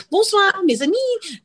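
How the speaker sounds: high, slow, sing-song fake French; drawn-out snooty French maître d' brush-off; fake French farewell. Hostess dismissing Larry David in a hammed-up fake French accent. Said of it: "started speaking fake French to Larry".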